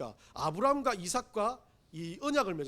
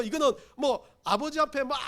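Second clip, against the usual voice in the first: usual speaking voice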